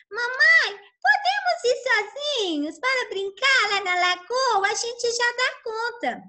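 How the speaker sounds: high eager duckling plea; pleading ducklings. Acted. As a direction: beg mum like small children. Ducklings asking to go alone.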